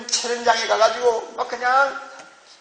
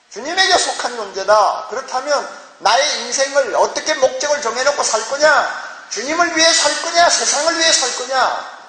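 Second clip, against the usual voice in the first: forceful, raised sermon delivery; impassioned preaching; 2 semitones higher than usual. Real, not acted. Preacher challenging the congregation on whom to live for, impassioned. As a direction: drive the questions home from the pulpit.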